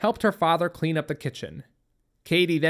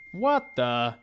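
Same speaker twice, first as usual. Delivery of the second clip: talking through a mouthful of food; mumbled round a bite; mouth full; 3 semitones lower than usual. A narrator's reading. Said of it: "said through a mouthful of food".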